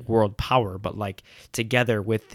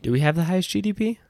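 pitched way up, loud and fast, in disbelief; surprised; 9 semitones higher, 5 dB louder, faster than usual. Real, not acted. Friend doubting a podcast cohost's claim, surprised. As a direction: blurt it out, can't believe it.

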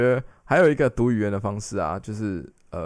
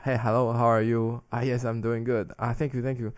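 put-on 1 American accent. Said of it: "我就是一个很浓厚的美国腔".

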